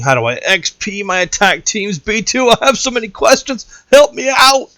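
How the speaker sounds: hammed-up overwhelmed questioner; pleading viewer.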